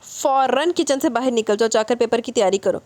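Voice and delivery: a touch of stern mother ordering her out; mild scolding. Acted. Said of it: "وہ ڈانٹتے ہوئے کہنے لگی".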